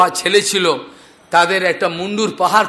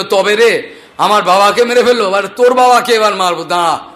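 angry threat. Retold or imitated. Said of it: "তারা রেগে".

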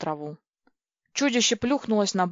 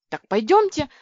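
high, louder eager call; 7 semitones higher, 5 dB louder than usual. A narrator's reading. Люся загорелась идеей посмотреть корабль. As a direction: jump at the idea. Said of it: "загорелась я".

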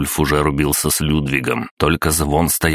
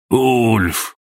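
call out; 7 semitones higher than usual. A narrator's reading. Einar calls out to Ulf.

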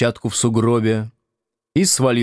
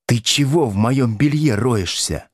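mild mock yell; 3 semitones higher than usual. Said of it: "заорала она".

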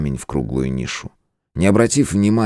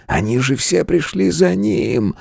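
high excited cry; 12 semitones higher, slower than usual. Acted. Elder excited realisation.

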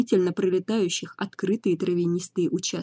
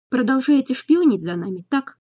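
higher, louder, spat through teeth; 6 semitones higher, 5 dB louder than usual. A narrator's reading. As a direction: grit out the accusation. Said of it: "процедила я".

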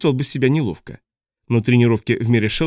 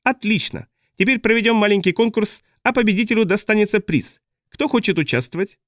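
high, showy clown voice; manic clown ringmaster; 9 semitones higher than usual. A narrator's reading. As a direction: announce like a mad circus clown. Boza addresses crowd.

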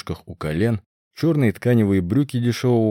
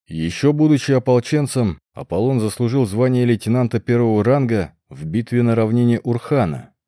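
slightly raised public-speech voice; praising announcement; 3 dB louder than usual. A narrator's reading. Darius praising the young warrior before the crowd, mild proclamation. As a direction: proclaim the praise, a little louder. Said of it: "расхваливал Дариус молодого воина".

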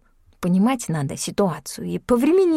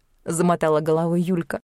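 ordinary delivery

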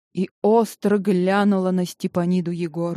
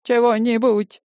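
insistent; 5 semitones higher, 3 dB louder than usual. Acted. Neighbor insisting, pitch up.

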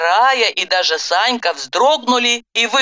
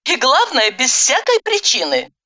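higher, aggrieved woman's voice; mild complaint; 7 semitones higher than usual. A narrator's reading. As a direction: complain with a touch of hurt. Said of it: "пожаловалась". (слегка жалобно)

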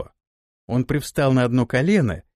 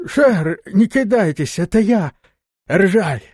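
calling out; 7 semitones higher, 5 dB louder, slower than usual. Acted. Servant calls out in dark.

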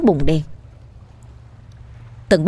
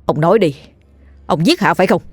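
mildly stern interrogation; stern demand; faster than usual. Acted. Dần demanding the truth from the old man, sternly. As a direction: press gravely for an answer. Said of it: "rồi quay người nghiêm giọng".

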